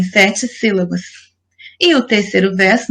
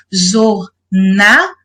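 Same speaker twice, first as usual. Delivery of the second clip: "jornada" slowly split as jor, na, da; syllable by syllable; much slower than usual. Shown as a demonstration. Teacher showing the stressed syllable, "jornada" split syllable by syllable. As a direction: break "jornada" into three separate syllables. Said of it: "você conta até a sílaba tônica".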